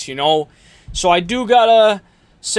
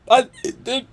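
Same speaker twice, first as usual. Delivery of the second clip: hiccuping; 5 semitones higher than usual. Real, not acted. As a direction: voice catching on a hiccup. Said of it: "I'm even coughing and hiccuping".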